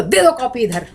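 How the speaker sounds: brusque order to hand it over; curt demand. Shown as a demonstration. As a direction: demand it without any politeness. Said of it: "किसी को बोलो".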